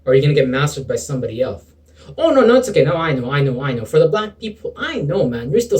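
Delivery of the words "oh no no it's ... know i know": mock someone brushing it off; mock excuse-maker. Voicing a self-excusing listener.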